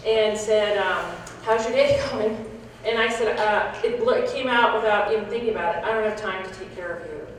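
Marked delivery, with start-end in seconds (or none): 1.4-2.4 lightly imitated cheery greeting; mildly chirpy, trying to sound upbeat; forced cheeriness. Young new nurse greeting a patient, trying to be cheery. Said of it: "trying to be cheery". 5.8-7.3 retold blunt remark, said softly; soft, offhand dismissal without thinking; matter-of-fact brush-off. Patient answering a new nurse without thinking, quietly blunt. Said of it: "that's the way I said it".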